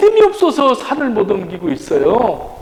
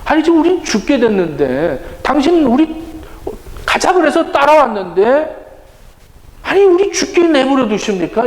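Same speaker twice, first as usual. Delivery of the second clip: higher-pitched grumbling protest; acted complaint; 4 semitones higher than usual. Disciples protest to sleeping Jesus, complaining. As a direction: voice the disciples' grievance. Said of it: "불평스러울 것 같아요".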